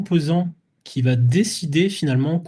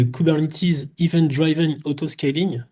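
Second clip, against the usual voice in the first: Kubernetes Event Driven Autoscaling said in a self-mocking, French-flavoured English accent; tongue-in-cheek English accent, as a French speaker would say it; a playful, not-quite English accent on the acronym. Shown as a demonstration. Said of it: "avec mon accent anglais impeccable".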